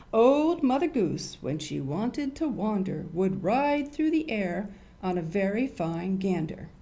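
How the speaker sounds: storybook reading voice; rhyme reading. Acted. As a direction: read it like a nursery rhyme to kids. Reads nursery rhyme aloud.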